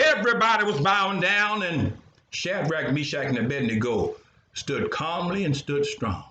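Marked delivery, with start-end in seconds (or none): none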